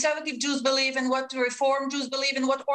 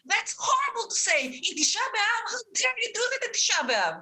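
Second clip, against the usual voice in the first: rising, pressing fury, words pushed out faster; indignant outrage; 3 semitones higher than usual. Real, not acted. Woman rebuking the rabbi on air, indignant rising anger. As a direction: hurl each "how dare you" back at him. Outraged rebuttal in live debate.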